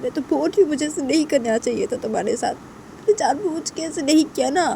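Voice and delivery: earnest, pleading explanation; apologetic Tisha. Acted. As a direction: beg to be believed. Voices Tisha explaining herself. (मिन्नत करते हुए सफ़ाई देना)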